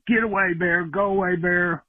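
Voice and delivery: high-pitched mock yell, no real volume; retold yell. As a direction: act out shooing it off without shouting. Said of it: "and yelled".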